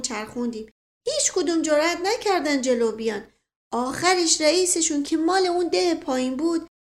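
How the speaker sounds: lightly voiced village servant, bragging; boastful old servant. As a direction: puff up like an old servant telling a hero tale. Mashqasem boasts of old fight.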